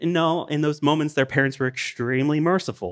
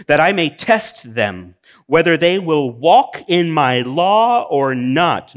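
solemn voice of God; 5 semitones higher, 5 dB louder than usual. Acted. Voicing the Lord reading scripture.

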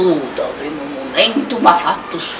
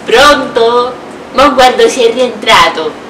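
shouted angry caller; angry phone call; 4 semitones higher, 6 dB louder than usual. Acted. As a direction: yell down the phone in a rage. Acted phone call to make them laugh.

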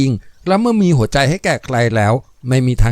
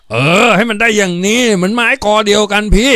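higher, louder triumphant cry; hearty cheer; 8 semitones higher, 3 dB louder than usual. Acted. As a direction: cheer him as a brother. Taeng cheering the friendship. (แตงร้องชื่นชมเสียงดัง)

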